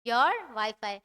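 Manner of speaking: very slow, each word separate; slow model sentence. Shown as a demonstration. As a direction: model it slowly for the class. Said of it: "ये might में कैसे बोलना है". (धीरे धीरे model वाक्य)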